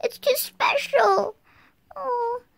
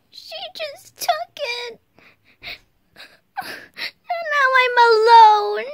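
sad whimper; slower than usual. Pretend. Child mourns lost ox.

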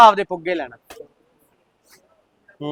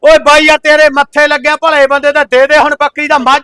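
hearty loud trucker banter; 4 semitones higher, 4 dB louder than usual. Real, not acted. Loud haggling over a goat.

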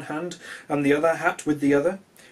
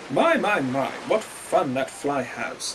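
captains' voice; slower than usual. Acted.

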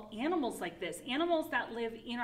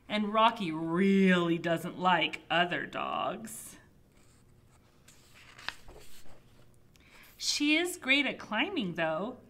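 animated storybook narration, loud opening stresses; reading to children; 6 dB louder than usual. Acted. Child narrator describing a pet, animated storybook reading. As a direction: read it out with big swings in pitch. Reads picture book aloud.

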